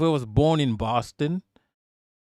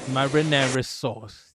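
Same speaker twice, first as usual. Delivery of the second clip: slow mock Chicago "Marinara sauce" with a drawn-out "sauce"; imitating Chicago accent; slower than usual. Streamer copies the Chicago sample lady, slow mock accent. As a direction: savor "Marinara sauce" slowly like the Costco lady. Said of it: "It sounds a bit Italian".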